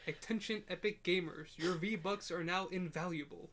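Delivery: mock formal news bulletin; announcer voice. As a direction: deliver it like an official alert. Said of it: "like, news reporter voice".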